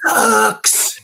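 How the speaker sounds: high, loud, drawn-out mock verdict; Nick. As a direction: stretch it out in a comic impersonation. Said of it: "Yeah, he goes".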